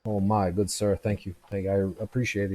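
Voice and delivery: fumbling thanks from a tipsy man; grateful drunk. Acted. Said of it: "he goes".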